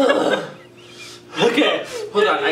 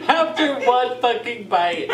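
laughing; 3 semitones higher than usual. Real, not acted. Laughing after the hot bite.

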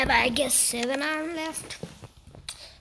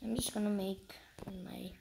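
whisper; 4 semitones lower, 11 dB quieter than usual. Real, not acted. Whispers while crafting.

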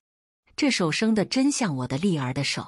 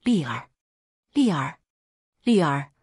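calling the son's name, a bit louder each time; desperate calls, only slightly raised. Acted. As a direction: call out to him through the door. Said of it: "只能高声叫道".

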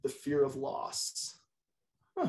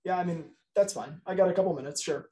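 hesitant yes; 3 semitones higher than usual. Shown as a demonstration. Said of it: "A confirmation yes might be pretty succinct".

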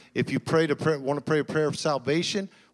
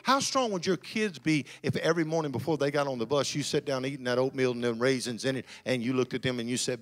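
builds louder line after line, rising to a shout; preaching at full force; 4 dB louder than usual. Acted. Pastor to the congregation, building preaching fervor. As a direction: preach it, swelling bigger each phrase.

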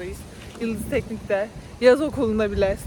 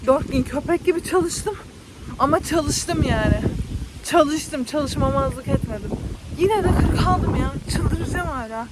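frustrated; 3 semitones higher than usual. Real, not acted. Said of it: "Aklıma geldikçe sinirleniyorum".

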